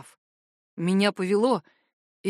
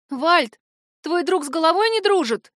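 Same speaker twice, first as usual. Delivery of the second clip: higher, louder frightened plea; scared, appealing for help; trembling voice; 8 semitones higher, 5 dB louder than usual. A narrator's reading. Witch to Valt about his mad friend, trembling. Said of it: "дрожащим голосом спросила ведьмочка".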